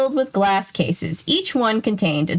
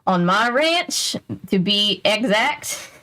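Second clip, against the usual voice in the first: a lightly voiced Texas rancher, drawn out; bad Texas accent; slower than usual. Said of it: "That's not a good Texas accent".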